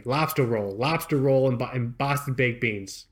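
demonstrating a put-on Boston accent; Boston accent learned from films. Shown as a demonstration. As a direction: show off your amateur Boston accent. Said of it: "It sounds like a Boston accent to me".

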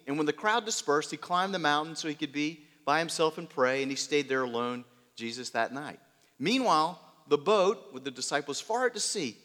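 lively storytelling read to the congregation, rising with the storm; dramatic Bible story reading. Acted. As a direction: paint the sea scene for the listeners. Reads the Peter story aloud.

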